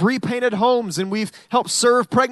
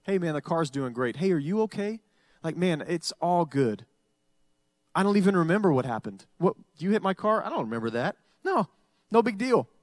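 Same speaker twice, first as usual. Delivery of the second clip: relaxed forgiving; 4 dB quieter than usual. Shown as a demonstration. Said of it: "Watch the difference if I said".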